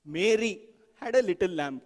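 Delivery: Mary stretched and set apart by a pause; stress on MARY. Shown as a demonstration. Teacher showing how to emphasize each word, stress on "Mary". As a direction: lean on "Mary", then pause before the rest. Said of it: "You emphasize each word".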